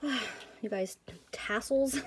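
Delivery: breathless from talking nonstop; out of breath, gasping between words. Real, not acted. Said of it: "I'm getting out of breath from talking".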